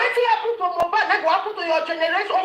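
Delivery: high, fast mocking jeer with laughter; laughing taunt. Real, not acted. Jeering at the woman who cursed him, laughing. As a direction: laugh while throwing the curse back.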